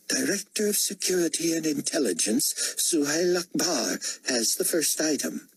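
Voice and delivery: high, formal ruler's voice; imperious potentate. Acted. Potentate calling the cabinet meeting to order, high and formal. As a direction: chair the meeting with lofty politeness.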